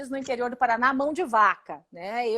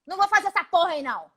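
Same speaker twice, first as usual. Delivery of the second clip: mocking the president; 4 semitones higher, faster than usual. Deputy mimics the president refusing the Northeast, crude and dismissive. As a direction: sneer it like the boss waving people away. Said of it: "é o jeito que o presidente fala".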